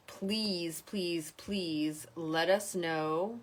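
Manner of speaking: drawn-out, begging please; pleading. Real, not acted. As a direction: plead slowly with the viewers. Host pleading with viewers.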